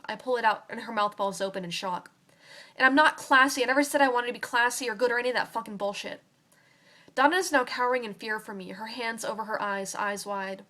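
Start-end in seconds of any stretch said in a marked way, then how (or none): 2.8-6.2 angry outburst. Acted. Girl lashing out at Donna over the knife, angry and loud. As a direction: spit the words out at her.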